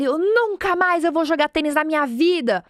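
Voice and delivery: half-hearted mock tantrum of a sore loser; imitating an angry boy swearing off tennis; angry kid. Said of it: "ele saiu bravo".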